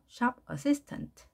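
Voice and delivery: SHOP slow and stressed. Shown as a demonstration. Teacher modelling the stress for the class, slow. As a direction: Shop assistant. drawn out slowly. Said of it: "이렇게 돼야 되겠죠?".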